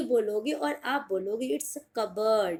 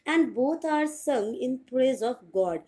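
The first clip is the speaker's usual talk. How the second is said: very slow, careful English; slow teaching read; much slower than usual. Shown as a demonstration. Teacher to students, slow careful English. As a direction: stretch every word out for learners. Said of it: "teacher reading slowly".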